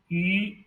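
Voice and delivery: "yu" with a rising tone; second tone. Shown as a demonstration. Teacher demonstrates the second syllable, "yu" in rising second tone. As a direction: lift the pitch through "yu". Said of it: "given tone is second tone".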